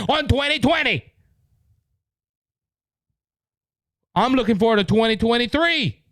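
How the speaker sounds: real exasperated rising anger; getting angry. Real, not acted. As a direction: let the frustration boil up. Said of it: "I'm sorry I'm getting angry with this".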